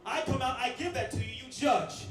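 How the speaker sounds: smug heel taunting the crowd; sneering wrestling villain. Acted. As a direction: look down on the booing fans. Wrestler cutting heel promo at crowd.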